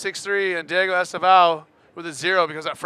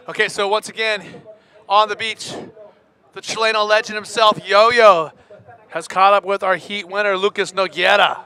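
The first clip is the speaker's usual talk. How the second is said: loud announcing; 4 semitones higher, 8 dB louder than usual. Real, not acted. Hyping interview on the beach.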